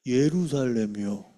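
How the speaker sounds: low, slow, drawn-out wrong answer; lightly voiced pupil answering slowly; child's answer. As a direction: stretch it out like a pupil in class. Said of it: "그랬더니".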